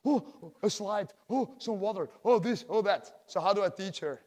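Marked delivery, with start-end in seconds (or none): 0.0-3.1 lightly voiced, slow wide-eyed child; a hint of a kid spotting toys at the pool; mock child delighted by the pool; excited little daughter. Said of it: "She's always, like".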